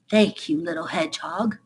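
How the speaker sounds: otter voice. Acted. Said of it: "said Otter".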